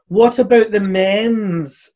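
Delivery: drawn-out mocking imitation of a complaint; mocking meme quote. Mimicking the meme feminists use, mockingly drawn out. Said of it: "a meme that feminists use of".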